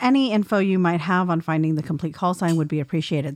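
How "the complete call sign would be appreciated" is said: ordinary talk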